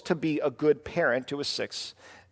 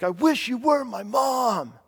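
put-on high, drawn-out kid's outburst; slow, high-pitched mock yell; mock tantrum; 8 semitones higher, slower than usual. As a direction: imitate a child wailing at a parent. Acted kid's bedtime outburst at mom.

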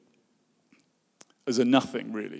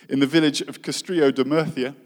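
put-on Spanish accent; 3 semitones higher, 5 dB louder than usual. Preacher jokingly showing off his Spanish on a place name, mock Spanish accent. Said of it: "yes, that's my Spanish accent".

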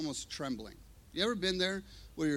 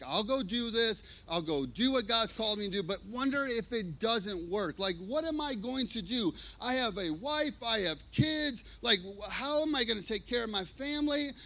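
worried pleading; 5 semitones higher than usual. Retold or imitated. Voicing his fearful doubts.

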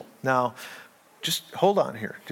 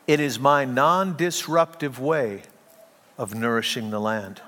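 the Lord's answer; 2 semitones lower than usual. Retold or imitated.

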